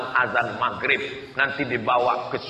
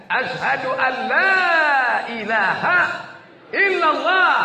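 shahada raised high; 9 semitones higher, 3 dB louder than usual. Acted. Dying man says the shahada.

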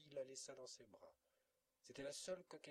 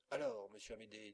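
tante en fureur; 7 dB louder than usual. A narrator's reading. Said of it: "dit une tante en fureur".

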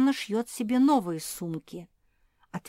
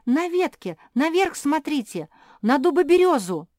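high and loud, calling the others to look; urgent excited cries; excited shouting; 9 semitones higher, 10 dB louder than usual. Acted. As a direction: keep yelling up at the tree. Josie keeps shouting.

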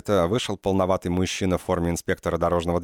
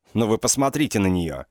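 booming outrage; 4 semitones higher than usual. Acted. Hit man booms at the crowd in outrage. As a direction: thunder it out to the crowd. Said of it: "прогремел сбитый".

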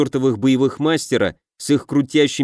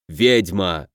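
bark; 7 semitones lower than usual. A narrator's reading. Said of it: "рявкнул Люцериус".

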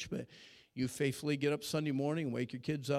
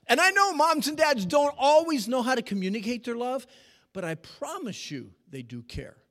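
usual speaking voice

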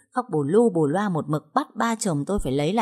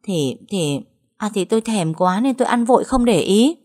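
stammering; 4 semitones higher, 4 dB louder than usual. Acted. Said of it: "Mụ Trâm ú ớ".

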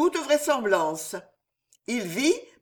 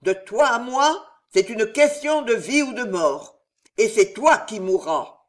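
a hint of hoarse, hissing rage, louder; hoarse hissing fury; 3 semitones higher, 4 dB louder than usual. The queen vowing Jeanne d'Albret's death in hoarse fury. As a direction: swear death on her enemy. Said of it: "rauques et sifflantes".

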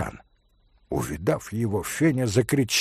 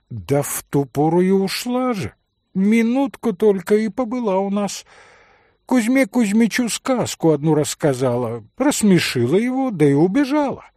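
put-on high old woman's voice; lightly voiced old servant woman; 6 semitones higher than usual. A narrator's reading. Old servant woman peers at Mitya in the dark, high old voice.

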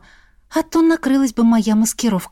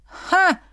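mocking snort; 9 semitones higher than usual. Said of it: "фыркнул он".

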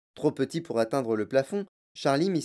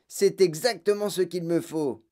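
put-on higher, eager child's voice; delighted boy; 4 semitones higher than usual. Boy has found just the room he wants, delighted. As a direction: gloat happily over the find. Excited boy gets his wish.

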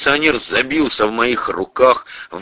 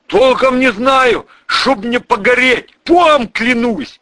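high, slow frightened babble; swearing innocence in terror; panicked pleading; 13 semitones higher, 5 dB louder, slower than usual. Acted. Cop swearing he doesn't know. (испуганно, высоко, клянётся)

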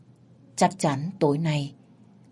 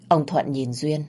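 ordinary delivery

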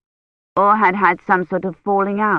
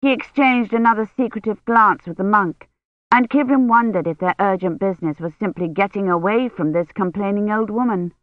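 ordinary delivery, nothing marked

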